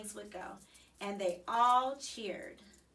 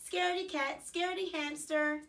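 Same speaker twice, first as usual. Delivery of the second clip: taunting; 6 semitones higher, 4 dB louder than usual. A narrator's reading. Garth taunts the hamster.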